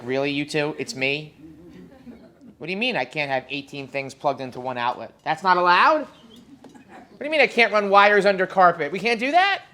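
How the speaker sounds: a hint of whiny outrage; mock indignant. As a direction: play up the innocent disbelief. Retelling complaint to fire inspector.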